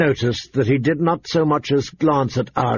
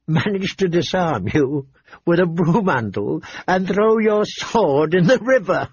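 mock courteous taunt, pitched up; teasing lord; 4 semitones higher than usual. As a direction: needle the prince with exaggerated wonder. Renly mocking Joffrey before the hall.

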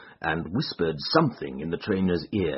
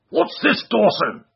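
higher, louder angry demand; crying out; 8 dB louder than usual. Acted. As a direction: call out sharply at the servant. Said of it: "he cried".

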